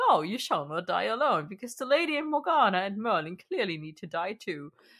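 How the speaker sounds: warm, kindly uncle-like voice. Retelling a menacing villain's threat in his kindly uncle voice. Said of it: "kindly uncle voice that he has".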